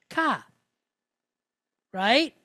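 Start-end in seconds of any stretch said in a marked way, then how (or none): 0.1-0.4 "ka" ending on an open vowel; open syllable. Shown as a demonstration. Teacher showing an example without the Lamed, open syllable. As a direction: say "ka" with no consonant closing it. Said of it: "that would be an open syllable".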